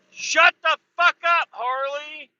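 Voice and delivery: slow, furious high yell at a biker; drawn-out shout of real rage; angry yell. Real, not acted. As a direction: bellow it down the street in real anger. Yelling at a loud passing motorcycle.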